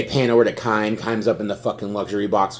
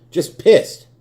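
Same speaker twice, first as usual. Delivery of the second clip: higher, louder, near-shouted pissed; angry shout; 8 semitones higher, 6 dB louder than usual. Real, not acted. Fan repeating his anger, higher angry shout. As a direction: explode on the repeat.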